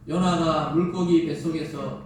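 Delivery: steady unison reading of scripture. Acted. Pastor leading the church in reading the verse aloud. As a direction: read the verse together, even and measured.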